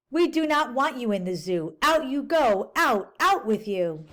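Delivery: a hint of firm grown-ups shooing him out; mildly stern "out you go" in story voice; lightly voiced stern zookeepers. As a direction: read the keepers' lines a touch firmer. Zoo keepers send him out.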